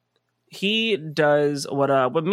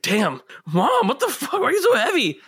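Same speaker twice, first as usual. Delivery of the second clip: put-on whiny kid to mom; 10 semitones higher than usual. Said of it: "he's just like".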